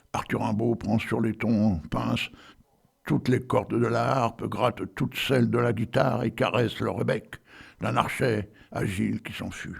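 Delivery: solemn poetry recitation; poem recital. Acted. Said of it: "Alors, j'y vais, attention".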